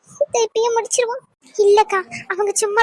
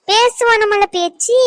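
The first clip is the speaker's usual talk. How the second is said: angry scolding; 5 dB louder, slower than usual. Acted. Scolding the harasser.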